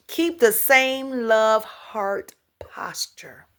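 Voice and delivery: slow, soft whispered advice. Shown as a demonstration. Giving gentle advice to viewers, slow whisper. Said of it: "repeated advice softer".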